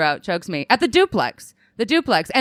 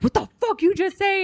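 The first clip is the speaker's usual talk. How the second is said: mock angry guy; 12 semitones higher than usual. Angry boyfriend quoted.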